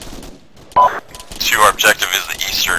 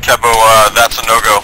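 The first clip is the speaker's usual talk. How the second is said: shouting; 3 semitones higher, 7 dB louder than usual. Real, not acted. Combat callout under fire.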